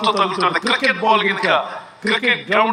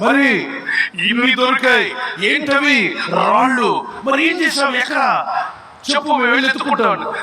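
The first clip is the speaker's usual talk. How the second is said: high-pitched, eager demands for answers; urgent questioning; 4 semitones higher than usual. Acted. Bystander demands where the stones are, acted urgent questioning. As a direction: press him with raised, excited questions.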